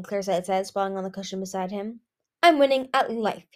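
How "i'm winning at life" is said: lifted, louder burst of delight; exuberant. A narrator's reading. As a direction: revel in it, higher and louder. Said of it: "he said exuberantly".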